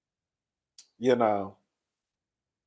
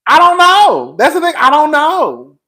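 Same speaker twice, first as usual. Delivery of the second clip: higher, louder breaking crying voice; 10 semitones higher, 9 dB louder, slower than usual. Real, not acted. Crying to viewers over the homeless man, voice breaking. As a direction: voice breaking through tears. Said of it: "I'm such a crybaby".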